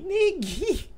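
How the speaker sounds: high squeaky catchphrase voice; squeaky little voice. Shown as a demonstration. Youtuber teasing his viewers with his squeaky catchphrase. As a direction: stretch Neguinho out slowly in a tiny high voice. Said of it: "essa vozinha que eu faço".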